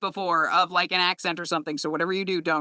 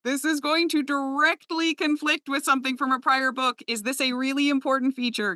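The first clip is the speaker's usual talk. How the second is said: higher-pitched, tentative heads-up; careful mock inquiry; 8 semitones higher than usual. Narrator asking an author about a conflict, careful high-pitched inquiry. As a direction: draw out the opening, delicately raising a problem.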